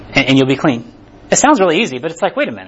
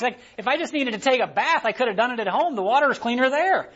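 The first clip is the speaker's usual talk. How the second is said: mildly indignant, higher-pitched grumble; pitched-up griping, imitating an offended man; mock indignant leper; 5 semitones higher than usual. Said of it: "turned and went away raged".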